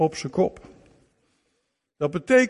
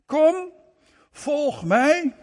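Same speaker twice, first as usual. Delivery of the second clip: calling out; 8 semitones higher, 4 dB louder, much slower than usual. Acted. Preacher voicing Jesus calling.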